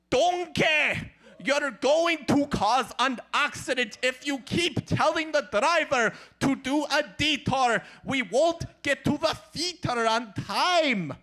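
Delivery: lightly voiced grumpy ogre; a hint of a grouchy ogre scolding; Shrek. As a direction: ogre scolding his friend, mildly grouchy. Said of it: "Shrek and Donkey".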